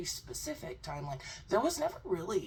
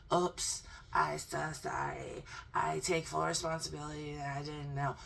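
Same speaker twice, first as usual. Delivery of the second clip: mock sorry voice. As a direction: play him as a sheepish child saying sorry. Mock contrite guest voice.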